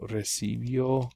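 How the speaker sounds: "recibió" spelled out slowly, syllable by syllable; slow model. Shown as a demonstration. Teacher slowly models "recibió" for the class. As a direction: stretch out "recibió" so students hear each sound.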